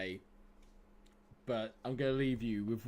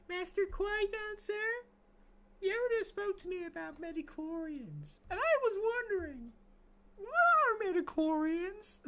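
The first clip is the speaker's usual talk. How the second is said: put-on high, childlike, much higher pitch; young Anakin impression. Streamer voicing young Anakin in The Phantom Menace. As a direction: ask it like an eager little boy. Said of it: "quote from wee Anakin Skywalker".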